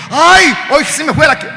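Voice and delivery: loud, high-pitched lament; mock wailing. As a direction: bewail your bad luck, hammed up. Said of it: "nos agarra la llorona a nosotros".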